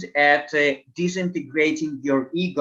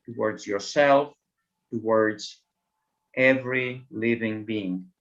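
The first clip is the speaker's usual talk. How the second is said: measured meditation voice with long pauses, settling lower; guided meditation; 3 semitones lower than usual. Acted. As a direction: lead them calmly, phrase by phrase.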